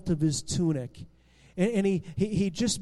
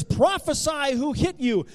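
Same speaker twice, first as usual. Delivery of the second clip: higher-pitched jeering demand; mocking taunt; 7 semitones higher, 4 dB louder than usual. Soldiers taunting blindfolded Jesus, mocking. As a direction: taunt him to answer. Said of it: "the soldiers are making fun of Jesus".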